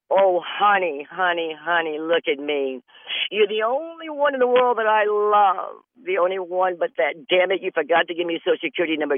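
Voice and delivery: a hint of a syrupy scammer, rushing the end; coo, then rattle off the demand; mock sweet talk. Imitating a scammer sweet-talking, then rushing to ask for money.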